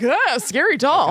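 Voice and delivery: slow, drawn-out mock fright; jokey scared. Crew member walking out on the doll, jokey scared. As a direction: pretend the doll spooks you. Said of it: "like, jokey scared".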